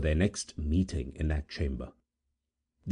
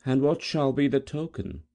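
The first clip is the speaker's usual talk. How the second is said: put-on proud girl; 9 semitones higher than usual.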